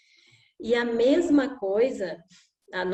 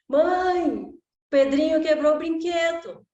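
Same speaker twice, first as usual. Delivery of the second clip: put-on child calling mom; 5 semitones higher, 4 dB louder than usual. Child calls to mother.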